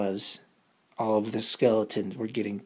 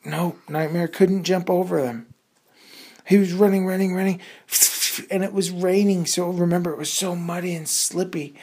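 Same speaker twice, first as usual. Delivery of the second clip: higher and louder breathless telling; excited chase narration; 6 semitones higher, 4 dB louder, faster than usual. A narrator's reading. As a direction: keep the chase urgent. Chase scene narration builds.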